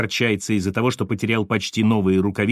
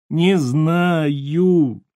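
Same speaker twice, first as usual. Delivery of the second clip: a mildly tearful, raised reply; 4 semitones higher than usual. A narrator's reading. Terrified prophet answering Chernov, mildly tearful. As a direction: near tears, not quite crying. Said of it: "плачущим голосом сказал пророк".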